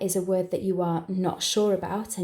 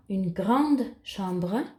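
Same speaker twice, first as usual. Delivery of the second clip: slow dictation; slower than usual. Shown as a demonstration. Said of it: "this is my first detail".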